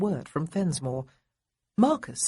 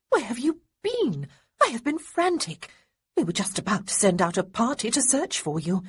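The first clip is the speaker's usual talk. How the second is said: lightly voiced worried young woman, higher; anxious cousin; 4 semitones higher than usual. Sarah scolding her soaked cousin, in a higher frantic voice. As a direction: pour it out, frantic and relieved.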